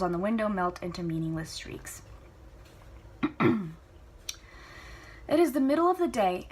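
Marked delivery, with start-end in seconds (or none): 5.3-6.5 brighter, higher, louder narration opening; storyteller opening a chapter; fresh chapter start. A narrator's reading. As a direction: launch the new scene with lift.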